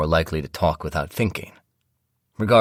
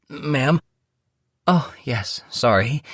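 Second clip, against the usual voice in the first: higher voice; 9 semitones higher, slower than usual. Acted. Valet then wife.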